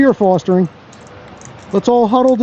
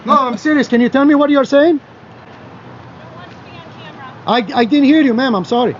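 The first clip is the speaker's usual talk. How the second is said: put-on Greek accent; 4 semitones higher, 3 dB quieter than usual. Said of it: "I'm gonna bust out the Greek accent".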